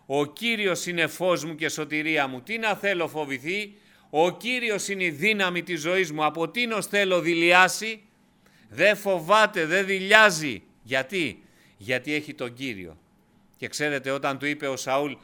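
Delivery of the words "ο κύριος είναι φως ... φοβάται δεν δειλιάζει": αργά, δυνατά, με πάθος; ανάγνωση σαν κραυγή πίστης; δυνατό κήρυγμα. Acted. Preacher at full force. (κήρυγμα με έξαρση, πιο δυνατά)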